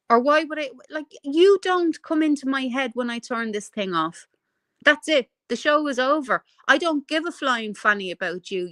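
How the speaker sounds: real indignant rant. Real, not acted. Telling off someone who reported them, ranting. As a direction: rant it out, punching the openings. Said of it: "I'm on a bit of a rant".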